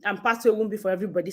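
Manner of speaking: panting after running upstairs; breathless, catching breath. Real, not acted. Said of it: "Sorry, I'm panting because I ran upstairs".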